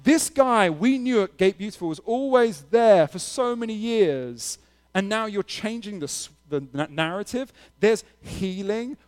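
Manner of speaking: high-pitched, astonished protest; freaking-out crowd. Acted. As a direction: act out bewildered onlookers demanding an explanation. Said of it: "all the people are freaking out".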